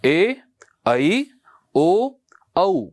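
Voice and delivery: teacher models the correct Sanskrit sound; correct Sanskrit vowels. Shown as a demonstration. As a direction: correct pronunciation of ए ऐ ओ औ, slow and clear. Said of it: "फिर से बोलेंगे मेरे साथ में".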